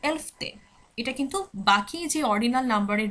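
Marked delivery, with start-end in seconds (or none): 0.0-0.5 এলফতে said higher as Swedish "elf-te", the final vowel held; Swedish pronunciation demo. Shown as a demonstration. Teacher shows students the Swedish eleventh, careful pronunciation. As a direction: model এলফতে clearly, holding the last vowel. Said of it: "তখন বলছি".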